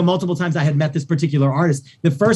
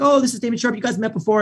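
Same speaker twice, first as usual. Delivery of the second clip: husband quote; 7 semitones higher, faster than usual. Retold or imitated. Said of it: "he's like".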